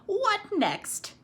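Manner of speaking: high exasperated exclamation. Acted. Missus Tickham finding a tail in the vacuum, exasperated. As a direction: throw it up high in dismay. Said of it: "said Missus Tickham".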